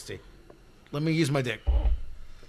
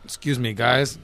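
soft, lower, hesitant ask; meek polite request; 4 semitones lower, 7 dB quieter than usual. Acted. Man showing how he asks family for help, meekly. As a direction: trail off timidly with ums and pauses. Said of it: "and then nothing fucking gets done".

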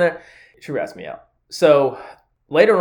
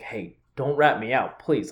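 subtle plea; 7 dB quieter, slower than usual. Retold or imitated. To a coworker in passing, subtle quiet plea. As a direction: ask discreetly, under the radar. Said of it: "I was so subtle about it".

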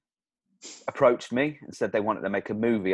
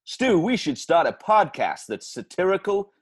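movie trailer voice; 2 semitones higher than usual. Pretend. Plays his own movie trailer aloud.

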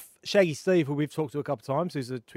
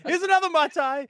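mock holiday streamer; 5 dB louder than usual. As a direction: lord it over the chat from a beach bar.

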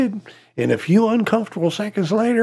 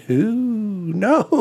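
laughing; 2 semitones higher, 4 dB quieter than usual. Real, not acted. Laughs after last joke.

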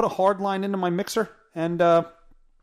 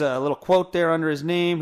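ordinary talk

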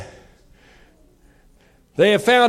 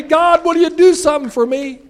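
raised, urgent plea to God; pleading prayer; 7 semitones higher, 5 dB louder than usual. Acted. Preacher voicing a believer asking God for help, loud and pleading. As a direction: ask God out loud, begging.

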